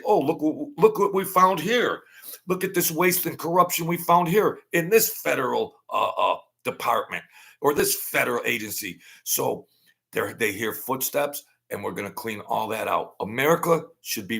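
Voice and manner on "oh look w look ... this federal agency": triumphant discovery. Retold or imitated. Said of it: "Elon Musk and Vivek Ramaswamy are gonna say".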